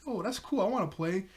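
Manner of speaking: high-pitched imitation of keenness; eager. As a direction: act out an eager would-be player. Retold eager character sees games.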